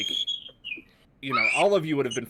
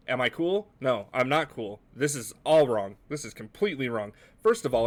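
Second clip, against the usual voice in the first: upset Bob Ross; 2 semitones higher, 5 dB louder than usual. Acted.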